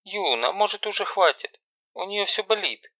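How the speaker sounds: high, anxious mother's voice; high, worried mum; frightened mother. Acted. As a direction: timidly beg her to stop. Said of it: "испуганно".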